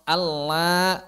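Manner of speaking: "Allah" pushed into the nose, said slowly; nasal mistake. Shown as a demonstration. Teacher showing the wrong nasal lam to students. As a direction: let "Allah" go nasal on purpose. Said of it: "itu kerongga hidung".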